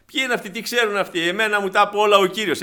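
high, scornful sneer; arrogant scoff. Retold or imitated. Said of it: "Σιγά μην πάω στον Πέτρο". (αλαζονική, περιφρονητική φωνή)

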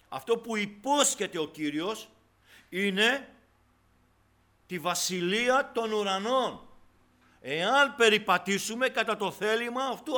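loud, high, emphatic sermon delivery; preaching at full force. Real, not acted. Preacher tells the congregation it is a matter of the heart, preaching forcefully. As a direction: proclaim scripture forcefully to the congregation.

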